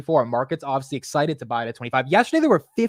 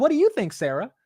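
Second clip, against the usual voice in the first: mock challenge; 9 semitones higher than usual. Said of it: "I was like".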